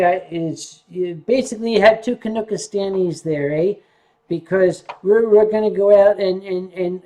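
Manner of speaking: loud, hammed-up Canadian, eh; Canadian accent. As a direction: play the proud Canuck, full volume. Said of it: "I'll do the Canadian thing, eh?".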